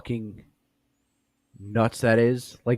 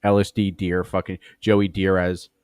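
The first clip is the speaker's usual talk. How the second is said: laughing; 8 dB louder than usual. Real, not acted. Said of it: "laughing hard".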